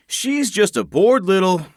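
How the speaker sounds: little punched high and loud; stress on little. Acted. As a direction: hit the word little hard. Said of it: "emphasis on little".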